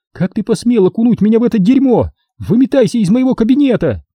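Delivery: high woman's voice in angry outburst; a high, enraged woman ordering him out; Sonya, furious. A narrator's reading. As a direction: throw him out, high and fierce.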